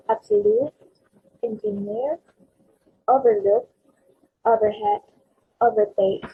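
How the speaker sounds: absolute, engineer, overlook, overhead, overtake, each weighted on the last syllable; third-syllable stress. Shown as a demonstration. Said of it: "last syllable or the third syllable".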